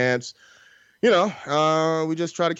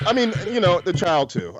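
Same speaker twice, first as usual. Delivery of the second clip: laughing; 5 semitones higher than usual. Real, not acted. Laughing through his words.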